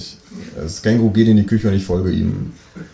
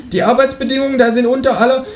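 kangaroo voice; 4 dB louder than usual. Acted. Känguru ruft hinterher.

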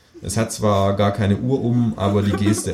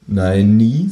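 firm no; 6 dB louder than usual. Acted. Author's firm retort.

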